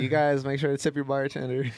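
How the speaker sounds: playing the host at a comedy show; a light stage emcee plug to the audience; comedy club host. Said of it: "you know when you go to a comedy".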